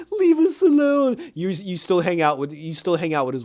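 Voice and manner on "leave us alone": high, loud, slow brush-off; drawn-out hammed-up shout; mock snapping teen. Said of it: "You cannot just be like".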